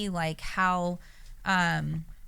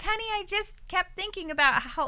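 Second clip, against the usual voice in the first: gentle Kathy; 8 semitones higher than usual. Retold or imitated. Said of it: "And she's like".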